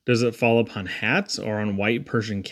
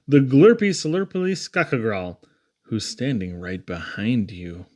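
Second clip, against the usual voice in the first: spooky reveal; 2 semitones lower than usual. Acted. Scary beast reveal, spooky drop.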